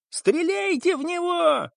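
high, desperate screaming order; frantic yelling. A narrator's reading. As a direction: howl the order to shoot. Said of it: "вопил Кирби".

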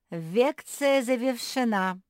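loud, slow proclamation, r and l as v; announced. A narrator's reading. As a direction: declare the lecture over, v for l. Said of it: "вдруг объявил бульдог".

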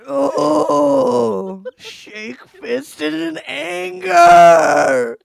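loud, high, drawn-out mock fury; hammed-up angry cry, very slow; mock anger. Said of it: "you have to have a shaking fist up in the air".

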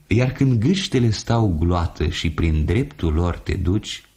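plain reading voice

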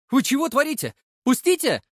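high, loud protest; wailing cry. A narrator's reading. Boy wails as the thug grabs his neck, high loud cry. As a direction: yelp to be let go. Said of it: "заголосил я".

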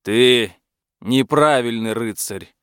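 booming dragon verdict. Acted. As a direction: speak as a grumpy dragon. Dragon character voice.

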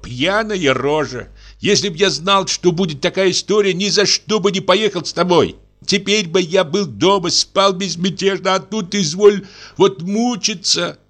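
a hint of an exhausted, fed-up guest; grumbling guest. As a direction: complain bitterly to himself. Guest grumbling outside the gate.

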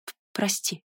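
soft, shivering whispered apology; whispering. Acted. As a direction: whisper it, teeth chattering. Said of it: "прошептала Кива".

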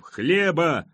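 high demanding cry; crowd roar. A narrator's reading. Hungry crowd all around demands bread, high roar. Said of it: "ревело вокруг".

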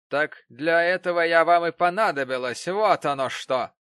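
loud, high gotcha exclaim; triumphant. Acted. Betsey Prig seeing through Mrs Gamp, loud triumphant cry. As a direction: savour catching her out. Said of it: "торжествующе воскликнула".

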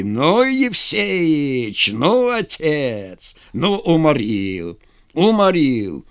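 very drawn-out words as if worn out from laughing; acted hilarity. A narrator's reading. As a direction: gasp out delighted praise after a guffaw. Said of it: "Ржали казаки". (сквозь смех, нараспев)

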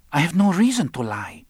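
high-pitched character protest; defensive female character. A narrator's reading. Marta denies lying to Roland.

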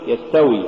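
يستوي with a brief s; moderately flowing s in يستوي; balanced sin. Shown as a demonstration. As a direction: say يستوي without dragging the s. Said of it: "قل".

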